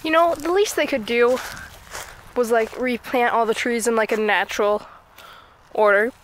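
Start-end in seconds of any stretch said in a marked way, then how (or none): 5.7-6.1 hiccup breaking the word. Real, not acted. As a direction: voice jolted by a hiccup. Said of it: "I just hiccuped".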